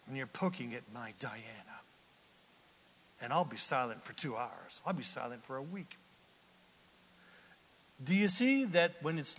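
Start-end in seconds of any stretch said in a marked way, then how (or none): 0.1-6.0 low, soft mock sulk; quiet, withholding grumble; silent treatment. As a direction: act out withdrawing into silence. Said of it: "silent treatment".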